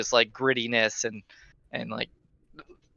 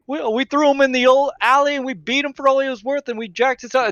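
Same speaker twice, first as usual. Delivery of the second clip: boastful thug; 11 semitones higher, faster than usual. Acted. Marin brags to the stranger about the beating, fast high. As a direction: rattle off the threat with glee.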